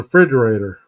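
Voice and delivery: "refrigerator" said as "fridgerator"; country-style "fridgerator" for "refrigerator"; country pronunciation. Retold or imitated. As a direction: drop the first syllable of "refrigerator". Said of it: "He had a very thick country accent".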